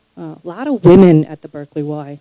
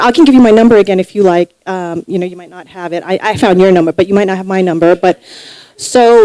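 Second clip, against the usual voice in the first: nervous rambling. Retold or imitated. Natasha keeps rambling, higher.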